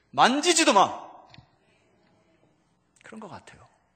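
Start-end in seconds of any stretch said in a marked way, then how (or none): 0.2-1.1 loud, stern, high-pitched tone. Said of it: "사탄에게 얘기하는 거예요".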